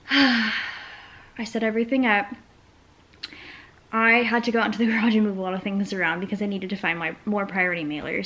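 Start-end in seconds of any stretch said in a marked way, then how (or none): 3.9-8.3 winded, talking out of breath; out of breath from carrying boxes. Real, not acted. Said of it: "very out of breath".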